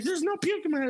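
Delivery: very high-pitched imitation of denial; hammed-up high protest; mock denial. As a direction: squeal the denial as the oblivious friend. Retold argument, friend denying puke.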